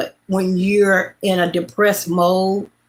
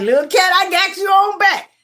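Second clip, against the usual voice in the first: sweet-talking the cat; 11 semitones higher than usual. Retold or imitated. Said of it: "I like".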